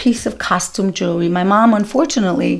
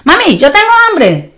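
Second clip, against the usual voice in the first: put-on pleading child; 10 semitones higher, 7 dB louder than usual. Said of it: "I looked right at my mother".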